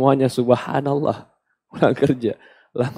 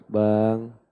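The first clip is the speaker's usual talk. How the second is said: gentle whisper in husband's ear; 5 semitones lower, 8 dB quieter than usual. Shown as a demonstration. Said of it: "kau bisikkan di telinganya".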